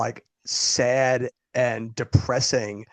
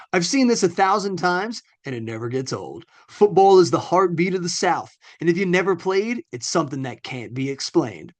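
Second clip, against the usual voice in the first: higher-pitched Foghorn Leghorn-style Southern reading; Southern accent; 3 semitones higher than usual. Acted. Co-host reads a glowing football review aloud, Southern accent. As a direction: read it out in a big Southern accent. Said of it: "reading them like Foghorn Leghorn".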